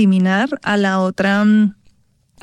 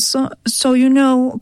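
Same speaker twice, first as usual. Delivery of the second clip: exaggerated English-style Spanish; 3 semitones higher, slower than usual. Shown as a demonstration. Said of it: "estoy súper exagerando y aquí se sale mi actriz".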